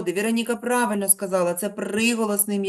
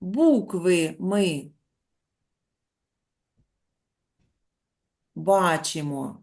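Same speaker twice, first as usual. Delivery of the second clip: slow rule; slower than usual. Shown as a demonstration. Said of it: "teacher states rule slowly".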